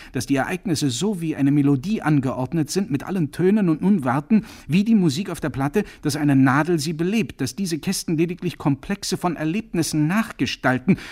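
loud, high, relentless tirade; ranting loudly. Acted. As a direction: keep roaring him down. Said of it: "brüllte Corcoran".

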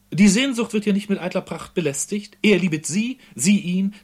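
high, loud, enraptured poem reading; rapturous recital. Acted. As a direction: declaim the verses in delight. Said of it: "schrie Fenslein entzückt". (entzückt und laut deklamiert)

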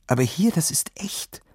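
hushed, breathy whisper; awed whisper of a nervous boy. Acted. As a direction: whisper it like a secret. Boy whispers about real danger.

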